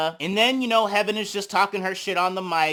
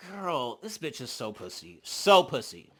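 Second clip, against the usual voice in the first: much softer, lower aside; muttered aside; 6 semitones lower, 6 dB quieter than usual. Real, not acted. Mocking Biggie for running, soft catty aside. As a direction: drop your voice for a catty aside.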